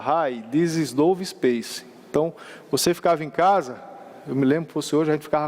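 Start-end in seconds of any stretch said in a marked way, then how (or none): 0.0-1.8 slow robotic satellite voice; old speech synthesizer. Retold or imitated. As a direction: imitate a synthesized voice, slowly. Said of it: "ele tinha um sintetizador de voz".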